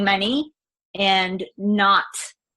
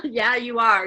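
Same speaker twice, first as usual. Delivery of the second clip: a laugh breaking into the repeat; laughing agreement; 3 semitones higher than usual. Real, not acted. Repeating it to her coach with a laugh. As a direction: laugh it off the second time.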